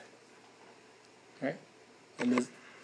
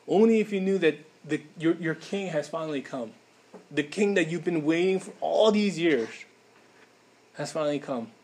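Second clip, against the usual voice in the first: rising, pleading cries over the city; pleading lament; 2 semitones higher than usual. Acted. Preacher voicing Jesus pleading with Jerusalem, heartbroken.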